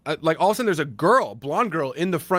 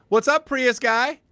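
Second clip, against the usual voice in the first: high, loud, slow playful greeting; teasing call-out; 11 semitones higher, 4 dB louder, slower than usual. Retold or imitated. Actress teasing him from her car, high playful call. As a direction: call it across the lot with a grin.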